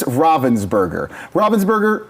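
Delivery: Ravensburger with an open RAH first; preferred pronunciation. Shown as a demonstration. Host settles on the company's name, Ravensburger said RAH-vens-burger. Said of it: "I'm pretty sure it's".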